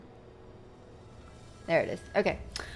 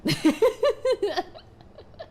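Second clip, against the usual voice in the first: high laugh; 12 semitones higher, 4 dB louder than usual. Real, not acted. Laughing at own meme.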